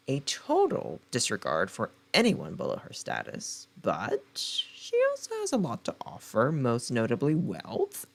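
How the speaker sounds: dramatic book-blurb narration; blurb read. Acted. Reading the back cover to her viewers, dramatic blurb read. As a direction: sell the story like a trailer.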